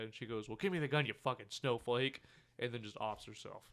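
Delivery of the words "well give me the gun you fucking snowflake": exasperated retort. Retold or imitated. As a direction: retell it as a fed-up demand. Retold angry movie line.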